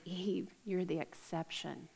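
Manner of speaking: soft sly whisper to Eve; whispered temptation. Retold or imitated. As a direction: lean in and whisper the lie. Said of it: "He whispered to her".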